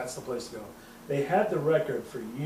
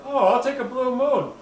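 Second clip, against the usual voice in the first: higher, louder mock-eager order; 9 semitones higher, 7 dB louder than usual. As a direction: call out your drink brightly. Retold bar order in put-on voice.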